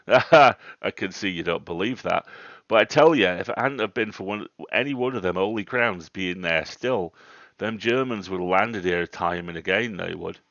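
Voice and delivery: put-on worked-up rustic old man, punching words loudly; old countryman getting quite excited. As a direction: insist on it to a doubter. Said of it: "getting quite excited that I didn't disbelieve him".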